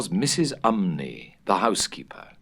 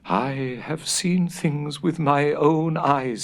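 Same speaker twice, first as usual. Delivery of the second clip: put-on slow, higher old housekeeper's warning; stern warning; 7 semitones higher, slower than usual. A narrator's reading. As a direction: warn them gravely. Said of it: "she sternly warned".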